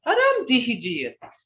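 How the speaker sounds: firm, felt Muskogee farewell ending in a fall; heartfelt. Shown as a demonstration. Teacher showing the sure Muskogee farewell to Jordan. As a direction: say it and mean it. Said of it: "But with the Muskogee language".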